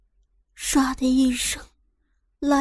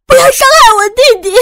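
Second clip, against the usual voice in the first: high, loud desperate scream; panicked scream; 11 semitones higher, 12 dB louder, faster than usual. A narrator's reading. Sister screaming to stop the gunman, high panicked scream. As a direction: shriek to stop him. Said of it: "我失声地叫了起来".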